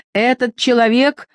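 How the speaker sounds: indignant high-voiced exclamation; falsetto cry. A narrator's reading. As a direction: pitch it up toward falsetto. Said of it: "крикнул он фистулой".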